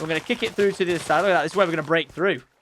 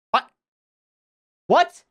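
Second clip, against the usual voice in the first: baffled what; 8 semitones higher, 5 dB louder than usual. Real, not acted. Confused by the inventory.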